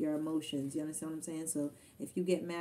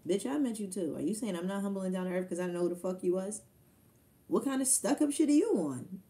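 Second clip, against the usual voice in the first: indignant inner rant; 4 dB louder than usual. Retold or imitated. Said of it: "I'm in my head thinking".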